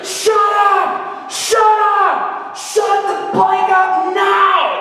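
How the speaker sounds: high-pitched imitated holler, the last words stretched out; screaming heckler. Stranger hollering at a teenage preacher to stop, imitated high yell. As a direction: yell it like an irate man hollering over a band. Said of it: "he's like screaming and hollering".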